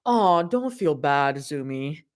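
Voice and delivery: slow, drawn-out teasing. Acted. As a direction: tease her sweetly. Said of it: "Mira teases".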